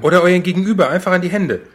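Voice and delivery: high, loud and fast; rally the listeners with zeal; excited preacher call. Pretend. Mock preacher calling out.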